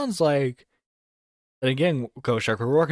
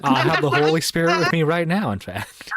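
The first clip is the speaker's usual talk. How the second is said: laughing; 4 semitones higher, 4 dB louder than usual. Real, not acted. Laughing joke about being drunk.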